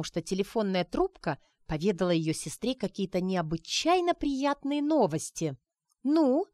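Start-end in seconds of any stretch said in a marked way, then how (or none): 6.0-6.5 impatient nudge, pitched up; нетерпеливо. Acted. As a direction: hurry her along, impatient. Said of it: "нетерпеливо теребила она сестру". (нетерпеливое «Ну?»)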